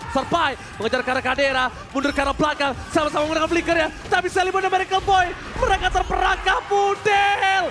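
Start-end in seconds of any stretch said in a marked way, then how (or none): 4.1-7.6 fighting game announcer. Real, not acted. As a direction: call the teamfight with rising excitement. Esports caster hyping a teamfight.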